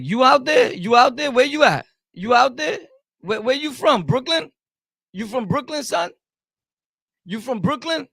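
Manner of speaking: high, loud mocking questions; loud sarcastic grilling of the chat; mocking taunt. Real, not acted. Taunting a commenter.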